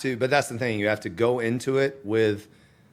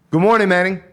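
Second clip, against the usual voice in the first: upbeat good-morning greeting, pitched up and loud; cheerful text greeting; 6 semitones higher, 7 dB louder, faster than usual. Shown as a demonstration. Sender texting someone good morning, cheerful and friendly. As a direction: wish good morning as it was meant. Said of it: "And that's how you send it".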